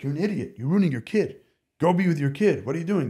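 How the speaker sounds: mildly acted self-reproach; scolding inner voice. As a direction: play the inner critic telling you off. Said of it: "one side, like".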